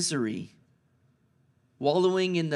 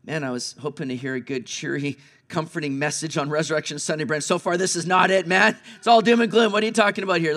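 imagined listener. Pretend. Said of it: "you might be sitting here thinking".

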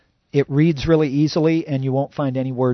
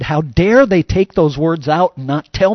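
angry outburst; 2 semitones higher, 6 dB louder, slower than usual. Retold or imitated. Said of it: "I just got angry".

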